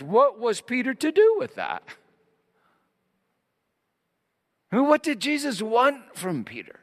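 high, loud preaching that keeps building; impassioned preaching. Real, not acted. Preacher pressing Peter's dilemma on the congregation, impassioned and rising. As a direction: drive the questions home, pitch climbing.

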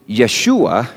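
Yeshua said YEH-shoo-ah, the Aramaic form; Aramaic name. Shown as a demonstration. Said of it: "Yeshua is the Aramaic".

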